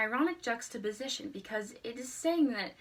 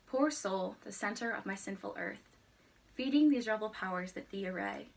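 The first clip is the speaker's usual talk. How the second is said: measured, solemn poetry reading; reciting a sonnet. Shown as a demonstration. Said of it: "I will recite it again".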